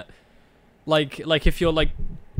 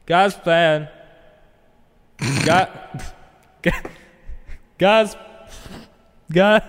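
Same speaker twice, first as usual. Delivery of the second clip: echo effect; 4 semitones higher, 3 dB louder, much slower than usual. Acted. Testing echo effect on mic.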